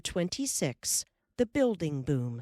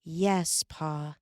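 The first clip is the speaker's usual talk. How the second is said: soberly. A narrator's reading. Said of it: "Laura promised soberly".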